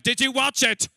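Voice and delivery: loud high demand, like grabbing a stranger; pushy shout. Retold or imitated. Comic to locals in the street, demanding loudly. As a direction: yell it at a passer-by. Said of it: "find you in the street and be like".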